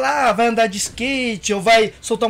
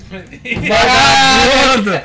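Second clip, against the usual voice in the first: shout; 5 dB louder, much slower than usual. Acted. Mock outrage at prank spoiled.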